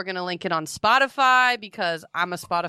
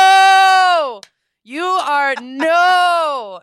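shrill loud no, no; loud high protest; 8 semitones higher, 10 dB louder, much slower than usual. Retold or imitated. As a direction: yell a high startled no. Retold protest to boy.

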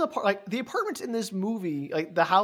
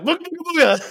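ghostly beckoning; 12 semitones higher, 9 dB louder than usual. Retold or imitated. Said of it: "I loved her going like".

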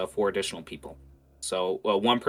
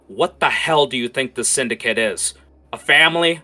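heated, raised-pitch rant; scolding gang member, climbing higher and louder; Coldbeard; 8 semitones higher, 8 dB louder than usual. Acted. Coldbeard berates Roy about the Syndicate, angrily. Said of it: "bark at each other".

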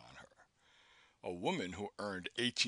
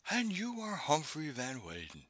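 solemn awe; 6 semitones higher than usual. A narrator's reading. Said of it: "with equal solemnity and awe".

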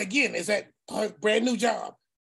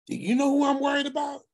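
higher, fast, forceful preacher's question; emphatic question; 6 semitones higher, faster than usual. Retold or imitated. Uncle pressing his niece with a forceful question. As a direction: drive the point home.

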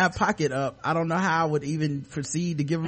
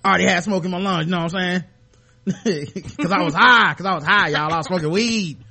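mock impression of the interviewed man, starting rushed; half-hearted take on his voice; imitating the interviewee; 3 dB louder, faster than usual. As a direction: lightly mimic a rambling interviewee. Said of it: "I don't know how to do that voice".

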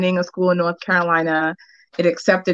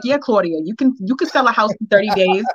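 put-on a light New York accent; 3 semitones higher than usual. Imitating her realtor Pat in a mild New York accent. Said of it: "so I'm gonna do her New York accent".

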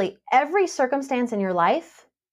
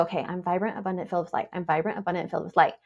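softly repeating an affirmation to herself; quiet mantra; 4 semitones lower, 5 dB quieter, much faster than usual. Retold or imitated. To herself after a fender bender, a soft repeated mantra. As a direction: murmur the words over and over to calm down. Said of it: "change my language and go".

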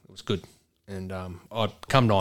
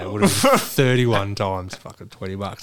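laughing; 5 dB louder than usual. Real, not acted. Laughing recalling the lost bet.

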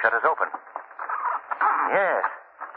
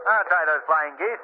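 ordinary talk

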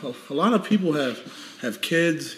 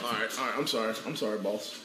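voicing the dog; 4 semitones lower, 10 dB quieter than usual. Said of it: "He's like".

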